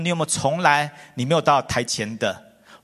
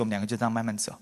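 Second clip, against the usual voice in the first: slow tired walk; 6 semitones lower, 7 dB quieter, much faster than usual. Shown as a demonstration.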